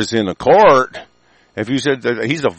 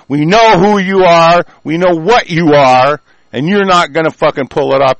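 furious shout; 6 semitones higher, 6 dB louder than usual. Real, not acted. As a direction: bellow the threat at them. Furious rant at government.

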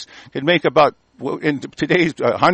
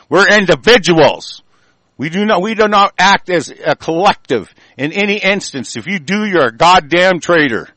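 higher, louder, slowed declaration; loud proclamation; 5 semitones higher, 4 dB louder than usual. Real, not acted. Declaring to traitors, loud higher proclamation. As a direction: preach it like a creed. Proclaims principle in a rising rant.

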